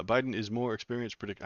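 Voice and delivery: a weak try at a Russian accent; a half-hearted Russian accent on the line; a faint Russian accent, barely there; attempted Russian accent. Shown as a demonstration. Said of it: "let me see if I can do a Russian voice".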